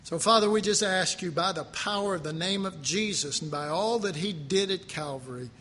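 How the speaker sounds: earnest spoken prayer to the Father; congregational prayer. Acted. Pastor praying aloud over the standing congregation. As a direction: lead the church in steady prayer.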